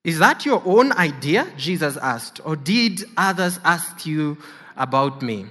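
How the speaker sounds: measured, solemn Bible reading; scripture reading. Acted. Preacher reading the Passion to the congregation, solemn reading voice. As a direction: read the Gospel to the congregation. Reads scripture aloud in church.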